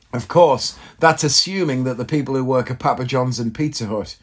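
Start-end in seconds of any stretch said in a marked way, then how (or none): none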